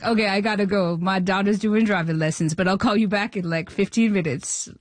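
lightly voiced comedian signing off; Adam Sandler impression. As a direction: imitate the comedian casually ending a call. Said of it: "It's the real Adam Sandler voice?".

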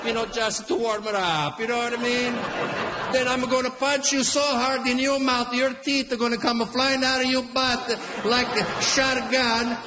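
a hot-headed Italian father threatening the line-cutter; Italian dad. Retold or imitated. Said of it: "My Italian dad right away".

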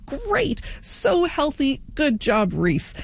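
high, slow sing-song cheer; playful over-the-top congratulations; mock praise. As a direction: gush like an impressed listener. Imagined listener praising Reese.

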